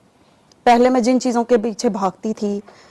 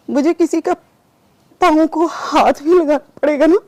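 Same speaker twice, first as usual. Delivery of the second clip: desperate pleading; 5 semitones higher than usual. Retold or imitated. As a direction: beg with rising urgency. Pleading to Baba Jani, retold. (हताश होकर गिड़गिड़ाते हुए)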